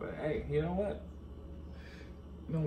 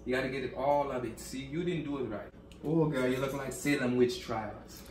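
put-on French accent, insistent instruction; El Dario. French hair maker correcting the client, mock French accent. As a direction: scold lightly in mock French. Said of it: "the accent for me French hair maker".

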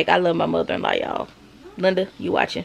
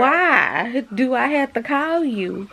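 stern scolding; 7 semitones higher than usual. Real, not acted. Mom scolding someone who ignores her calls, slow and stern. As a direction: lay down the rule word by word. Argument with person off camera.

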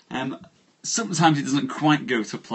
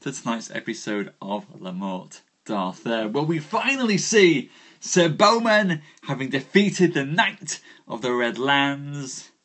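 theatrical announcer. Acted. Host welcomes viewers to tonight's tale, theatrical announcer. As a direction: swell the key words like a grand storytelling host.

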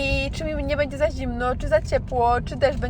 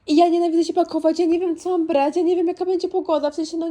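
higher and fast, frustrated; exasperated rant; 5 semitones higher than usual. Real, not acted. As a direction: rattle off the complaints, exasperated. Exasperated rant about packing. (sfrustrowana tyrada)

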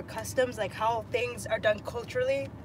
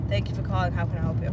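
flat, lower customer service script; monotone call-centre voice; 6 semitones lower, faster than usual. Pretend. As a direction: recite it like a bored phone agent. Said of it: "A fucking monotone voice".

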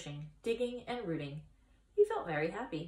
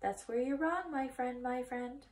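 1 goose voice; 5 semitones higher than usual. Acted. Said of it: "said a voice".

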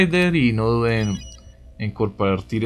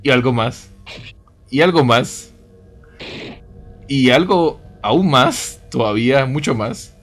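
each "algo más" louder, last "aún" stretched slow; building emphasis; 5 dB louder, slower than usual. Acted. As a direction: climb in force on every "más". Enumera cada vez con más fuerza. (cada "algo más" más fuerte, "aún" lento y alargado)

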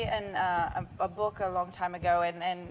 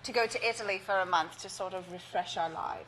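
put-on London accent. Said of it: "we gotta do the whole interview in that".

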